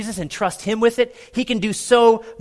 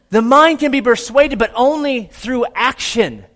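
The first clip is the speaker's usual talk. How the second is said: emphatic preaching; 4 semitones higher, 4 dB louder than usual. Real, not acted. Preacher repeats with force.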